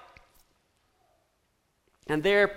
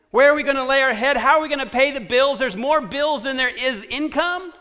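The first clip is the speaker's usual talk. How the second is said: rapid, high-pitched string of worried questions; mildly panicky, hurried fretting; anxious worrying; 4 semitones higher than usual. Acted. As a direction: pile up the worries without a breath. Voicing families' money worries.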